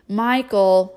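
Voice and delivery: loud sharp warning. Acted. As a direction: warn him to stop. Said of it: "her silencio look".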